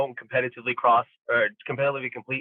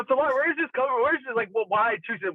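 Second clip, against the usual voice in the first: incredulous questioning; 10 semitones higher than usual. Retold or imitated. Confronting coach about weight.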